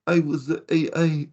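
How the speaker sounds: lightly imitating an Italian man's English accent; mild mock Italian accent. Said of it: "I'll even do a bit of his accent".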